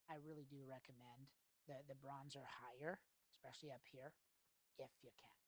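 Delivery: measured, unhurried pitch with deliberate pauses; slow sales presentation. Shown as a demonstration. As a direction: present the options slowly, letting each one land. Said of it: "Not very fast".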